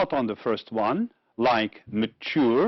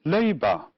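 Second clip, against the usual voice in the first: Labor, stressed on LA, falling tone; stress on first syllable; 3 semitones higher than usual. Shown as a demonstration. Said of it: "mark the stressed syllable".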